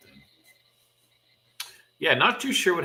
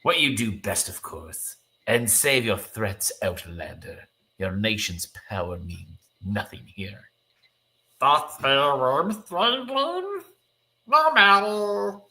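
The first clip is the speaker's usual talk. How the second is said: cartoon creature voice; 4 semitones higher, slower than usual. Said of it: "Let's go with it".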